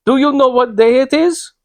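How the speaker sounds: high, urgent question; excited. Acted. Old lady warning the traveller about the day, high and excited. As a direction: press him anxiously, pitched high. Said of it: "in such an excited state".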